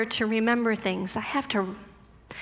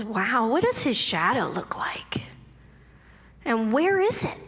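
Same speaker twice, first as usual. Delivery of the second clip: whispered wonder. Retold or imitated. Wondering about God's shadow.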